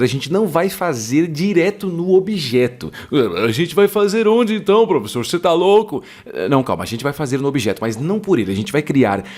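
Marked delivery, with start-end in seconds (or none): 3.5-6.0 high, louder indignant student voice; aluno indignado. Pretend. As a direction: play the baffled student. Imagined student objection, mock voice. (voz de aluno indignado)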